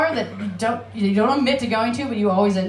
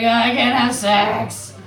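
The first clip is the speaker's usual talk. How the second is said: lethargic eel; much slower than usual. Retold or imitated. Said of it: "They're like".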